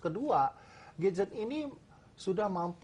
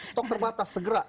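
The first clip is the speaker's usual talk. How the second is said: urgent hard-sell pitch, higher; over eager infomercial; 5 semitones higher, 3 dB louder than usual. Acted. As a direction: push the scarcity like a TV salesman. Salesman pushes limited stock.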